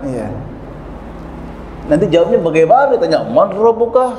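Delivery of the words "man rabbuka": high questioning pitch, hammed up; mock angel question. Angel quizzes a Sundanese man, high and playful.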